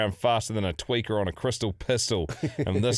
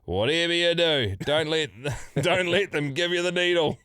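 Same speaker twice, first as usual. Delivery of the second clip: laughing warning; 6 semitones higher than usual. Retold or imitated. Patient warning the waiting room, laughing. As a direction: crack up while warning them. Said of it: "and I say".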